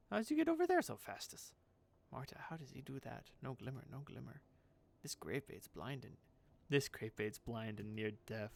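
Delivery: lightly voiced batty crone; puzzled self-talk in character; eccentric seamstress, baffled. Voices Marta muttering to herself.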